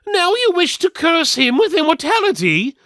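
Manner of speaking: very high and loud, incredulous; outraged twin. A narrator's reading. The surviving twin confronting the steward, outraged. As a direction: cry out in outrage. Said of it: "the twin who wasn't dead said".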